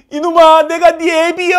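put-on high, loud rustic old father; old father shouting. Father in another meeting room yelling to his son. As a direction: holler it like a country grandpa. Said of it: "이렇게 외칩니다".

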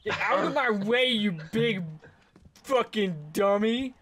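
loud playful shout, slowing at end; mock angry yell. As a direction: yell at your buddy in jest. Yelling at teammate in game.

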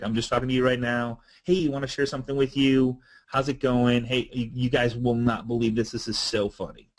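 casual, everyday conversational voice; talking to a friend. Shown as a demonstration. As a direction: say it offhand, as if chatting with a friend. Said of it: "talk like you were talking to a friend".

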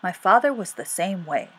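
mildly firm dentist. Acted. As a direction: state it as a settled principle. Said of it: "said the dentist firmly".

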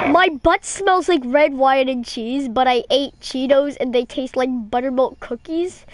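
incredulous repeat. Real, not acted. Repeats absurd message in disbelief.

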